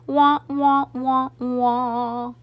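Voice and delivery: sung-out wah-wah in even notes; sad-trombone guitar sound. A narrator's reading. Guitarist's sting after a bad joke, mocking wah-wah. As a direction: imitate a joke-flop sting, last note drawn out. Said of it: "making the sound".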